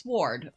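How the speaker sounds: "sword" with an audible w; W pronounced. Shown as a demonstration. Player settling how the looked-up word goes, "sword" with a w. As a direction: sound the w in "sword". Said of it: "No, it's pronounced sword".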